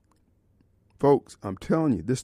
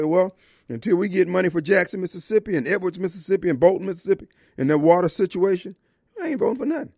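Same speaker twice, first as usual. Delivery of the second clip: defiant caucus voice; 3 semitones higher, faster than usual. Retold or imitated. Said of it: "fold their arms and say".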